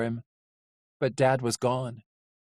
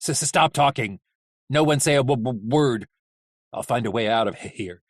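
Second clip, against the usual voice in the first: stammering orders; 3 semitones lower than usual. Acted. Hap stammers orders to captives.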